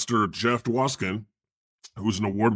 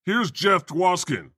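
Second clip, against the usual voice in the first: mock minimal intro; 6 semitones higher, slower than usual. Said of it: "I should have said".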